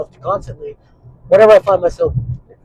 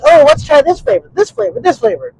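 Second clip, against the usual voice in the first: much higher, mock eager kid voice; excited kids; 12 semitones higher, 5 dB louder than usual. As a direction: play the kids sampling every flavor. Kids tasting flavors, mimicked.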